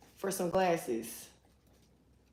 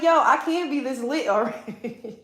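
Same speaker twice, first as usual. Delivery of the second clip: laughing disbelief; 3 semitones higher, 6 dB louder than usual. Retold or imitated. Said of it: "I'm like".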